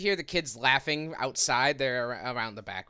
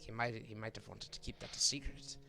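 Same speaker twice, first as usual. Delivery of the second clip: lightly voiced keeper, softening as he apologises; apologetic orphanage keeper; 6 dB quieter, faster than usual. Keeper to visitor after spilling a secret, mildly apologetic. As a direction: backtrack hesitantly, in a quiet character voice.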